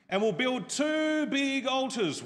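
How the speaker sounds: mock challenge. Elijah throwing down a challenge, loud and slow. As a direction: call it out like a dare.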